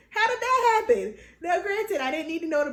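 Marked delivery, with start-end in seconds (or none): 0.1-1.1 loud, high disbelieving outburst; high-pitched, incredulous cry; retold shock. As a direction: exclaim it, utterly baffled. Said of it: "I just was shocked".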